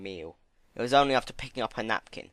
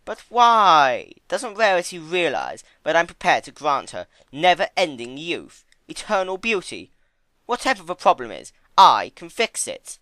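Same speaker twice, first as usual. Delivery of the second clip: high, much louder pleading outburst; hurt bewilderment; 8 semitones higher, 10 dB louder than usual. A narrator's reading. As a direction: cry out, wounded and baffled. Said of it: "look of bewilderment and hurt".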